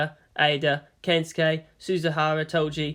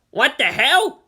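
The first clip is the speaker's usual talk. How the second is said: put-on higher, louder outraged boy; indignant Kensuke; 9 semitones higher, 6 dB louder, slower than usual. A narrator's reading. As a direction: blurt it in disbelief. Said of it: "Kensuke got up and pointed at her".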